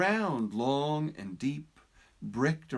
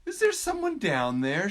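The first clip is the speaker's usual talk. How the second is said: higher, louder call down the well; turtle calling down; 8 semitones higher, 6 dB louder than usual. Acted. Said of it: "she said".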